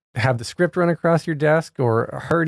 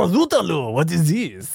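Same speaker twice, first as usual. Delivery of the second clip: put-on stereotype French chef accent; 3 semitones higher than usual. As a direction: exclaim like a caricature French chef, accent laid on. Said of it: "the stereotype, the chef".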